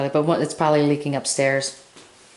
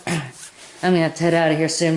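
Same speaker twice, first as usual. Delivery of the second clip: hoarse, swollen-throat voice; swollen tonsils voice. Real, not acted. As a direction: speak through a sore swollen throat. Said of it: "My throat is so swollen right now".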